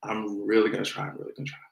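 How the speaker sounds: whispered, fighting off laughter; holding back laughter. Real, not acted. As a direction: hold the giggles in as you whisper. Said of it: "try not to cry laughing".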